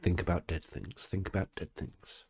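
soft self-directed murmur; calming oneself. Real, not acted. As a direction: quietly talk yourself out of laughing. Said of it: "I just need to calm down".

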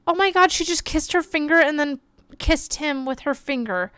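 ordinary talk, nothing marked

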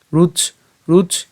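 high, slow রুচ stopped on the ch; broken-off syllable. Shown as a demonstration. Teacher splits the word, রুচ spoken slowly ending on ch. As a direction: cut রুচ off at ch, spaced out. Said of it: "চ পর্যন্ত আমরা উচ্চারণ করলাম".

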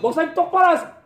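very high-pitched mock yell; high, strained imitation of a furious outburst; angry table-banging outburst. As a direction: imitate an irate accuser in a squealed, high voice. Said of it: "저 식탁을 치면서".

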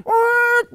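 high shouted screech of brakes; imitated brake screech. Telling how the truck braked, a high shouted screech. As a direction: mimic the truck braking hard.

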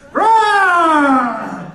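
hammed-up lion roar. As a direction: roar like a lion after dinner. Comic playing a roaring lion.

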